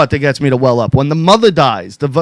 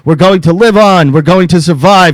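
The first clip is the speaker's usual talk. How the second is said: president's speech; 4 dB louder than usual. Pretend. Reciting the president's movie speech.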